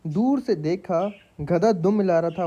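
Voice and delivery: slow, drawn-out mock shayari recital; slow poetry recital. Shown as a demonstration. Reciting cheap shayari to his viewers, slow and hammed-up. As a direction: savour each word like a stage poet, slowly. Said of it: "तो अर्ज़ किया है".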